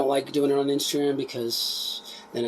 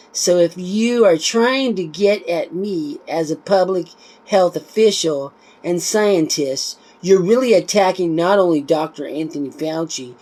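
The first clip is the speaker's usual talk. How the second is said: a mocking quoted voice, higher, louder and slower at the start; Anthony Fauci quote; 5 semitones higher, 6 dB louder, slower than usual. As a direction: lightly mimic the official being quoted, with scorn. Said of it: "he puts a quote here from N I H Director Anthony Fauci".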